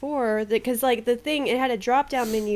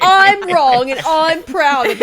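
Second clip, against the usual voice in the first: mock smug friend; 5 semitones higher, 9 dB louder, slower than usual. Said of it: "You're like".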